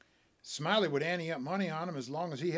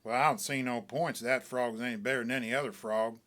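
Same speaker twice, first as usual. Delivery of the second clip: deliberate; 4 semitones lower than usual. Acted. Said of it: "very deliberate".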